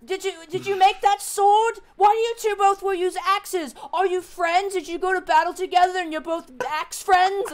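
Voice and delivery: high, loud eager questions; curious kobold. Acted. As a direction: pepper her with excited little questions.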